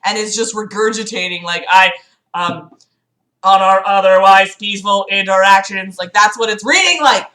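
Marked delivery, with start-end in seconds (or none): 1.7-6.0 robot voice. Pretend. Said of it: "like a robot who was programmed to feel human emotions".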